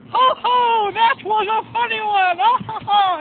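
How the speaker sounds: hammed-up high, loud fake chuckle; mock jaunty laugh. Mocking reading emails, hammed-up high fake laughter. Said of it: "you don't get jaunty".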